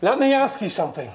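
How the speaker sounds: hammed-up Aussie-ish accent on every line; lightly put-on antipodean accent, threatening the host; weird put-on accent. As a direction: play Coco the tough Yeti, mock menacing. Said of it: "that's a weird fucking accent".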